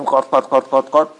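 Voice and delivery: choppy repeated car-noise syllables; imitated car rattle. Preacher joking about downgrading to a Pride, mock car rattle. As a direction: mimic an old car rattling along in short bursts.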